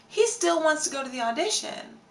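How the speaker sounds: high-pitched, astonished repeat; incredulous. Real, not acted. Telling viewers he still wants the audition, incredulous.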